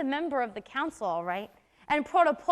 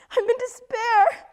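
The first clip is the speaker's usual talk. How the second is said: higher and louder, sobbing through the words; crying; 5 semitones higher, 6 dB louder than usual. Acted. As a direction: break down in tears to her sister. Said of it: "Don't cry".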